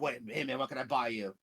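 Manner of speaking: lightly voiced eager salesman; happy vendor. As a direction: play a happy, chatty merchant. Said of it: "he's, like, so happy".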